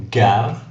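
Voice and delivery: gare with a hard "g" as in go. Shown as a demonstration. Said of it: "are hard G".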